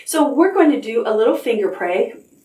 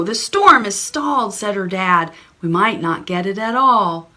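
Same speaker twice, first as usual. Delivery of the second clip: put-on story reading for children. Reading a picture book aloud.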